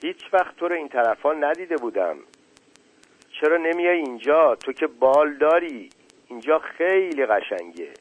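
lightly voiced little daisy growing bolder; a hint of a small flower finding courage; shy flower, braver. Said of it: "با شهامت بیشتری گفت".

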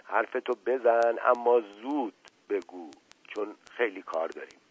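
gently. Acted. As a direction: coax him calmly. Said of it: "با ملایمت گفت". (با ملایمت و آرام)

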